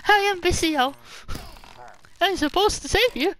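put-on high, loud girl voice; voicing her. Voicing the villager girl who says she's busy saving him. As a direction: squeak out the busy girl's line. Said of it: "she like".

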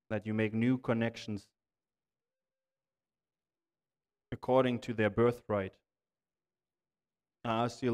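earnest, even-toned prayer with long pauses. Real, not acted. Preacher praying to the Lord for discouraged listeners, earnest measured prayer. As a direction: pray in measured phrases, pausing between petitions.

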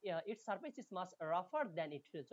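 slow, careful English text reading; slow reading aloud. Shown as a demonstration. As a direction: read each word out slowly for students. Reads English text slowly. (ধীরে ধীরে পড়ে শোনানো)

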